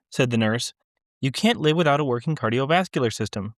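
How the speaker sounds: measured, unhurried literary reading; story narration. A narrator's reading. Author reading her story to a listening audience, measured narration. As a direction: read it to the room like a practised author.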